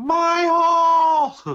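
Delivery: very loud, very high, shrill, piercing yell. Retelling how loudly a wrestler yelled after a bump: imitating Nia Jax yelling very loudly. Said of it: "very loudly she yelled".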